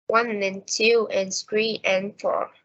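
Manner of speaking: evenly timed beats on one, two, three, four; stress-timed rhythm. Shown as a demonstration. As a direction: stress the numbers, tuck "and" between the beats. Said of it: "time between stressed words is always the same".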